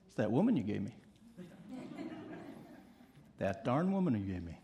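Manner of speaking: Adam blaming the woman to God, low and grumbling. Acted. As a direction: mutter the excuse like a caught husband.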